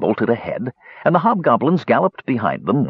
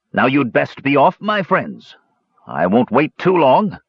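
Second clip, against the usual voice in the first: mocking Toad; 4 semitones higher than usual. Toad sends the Kender off, mock polite. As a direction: wave them off with false courtesy.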